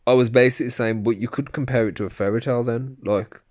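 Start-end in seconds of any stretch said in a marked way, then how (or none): 1.0-3.0 quick, easy and mild, no offense meant; a relaxed, inoffensive aside, a bit quick; calm, no offense. Retold or imitated. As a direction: say it lightly as if nothing was meant by it. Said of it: "just calmly, like, no offense taken".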